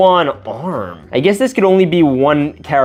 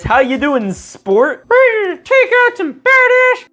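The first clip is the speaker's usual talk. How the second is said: voicing a figure. Voicing adult to Kid Pool.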